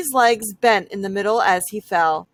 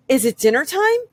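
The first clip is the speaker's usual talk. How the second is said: calling out; 4 semitones higher, 4 dB louder, faster than usual. A narrator's reading. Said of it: "he called".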